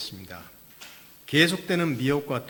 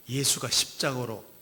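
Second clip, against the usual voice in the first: normal talking voice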